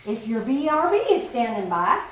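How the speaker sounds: southern accent. Real, not acted. Talking about B R B, southern accent. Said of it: "have to have a southern accent".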